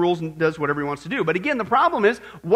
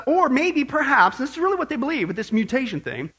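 mock quote; 3 semitones higher than usual. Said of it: "or they say".

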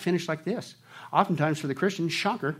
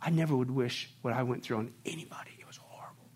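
hushed; 3 semitones lower, 5 dB quieter than usual. Real, not acted. Testimony drops to a hush.

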